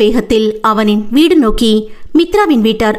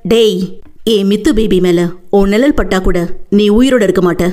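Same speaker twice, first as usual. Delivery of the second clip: lowered, menacing growl; mild menacing growl; growled threat; 3 semitones lower than usual. Acted. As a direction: warn him off like a guarding animal. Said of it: "அவன் உருமவும்".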